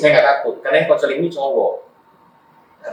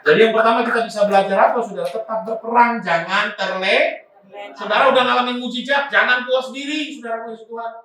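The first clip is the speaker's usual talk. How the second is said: high, driving preacher's voice; preaching exhortation; 12 semitones higher than usual. Real, not acted. Preacher urging the congregation to keep training and learning, high exhortation. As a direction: urge the congregation on, pitched high and sustained.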